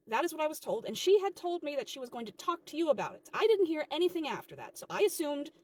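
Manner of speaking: mildly heated, insistent self-defence. Acted. Worker defends herself to manager, mildly heated. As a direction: argue back with a touch of heat. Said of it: "There's no reason to be yelling here".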